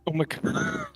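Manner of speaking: very high, squealed "Oh my God"; shocked exclamation. Real, not acted. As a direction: shriek it in amused shock. Hearing she made her cry.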